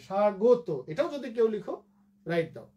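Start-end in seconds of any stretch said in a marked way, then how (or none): 0.1-0.7 স্বাগত with closed o after g, sha-go-to; alternative pronunciation. Shown as a demonstration. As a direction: round the গ of স্বাগত into গো. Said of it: "গয়ের ওকার দিয়ে". (স্বাগত, গয়ে ওকার দিয়ে উচ্চারণ)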